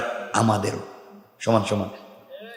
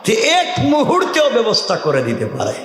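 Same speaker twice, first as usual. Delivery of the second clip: high, ringing preacher's cry; rousing preaching; 3 dB louder, slower than usual. Acted. Preacher urging the crowd to praise Allah, rousing high call. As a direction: call out to rouse the congregation.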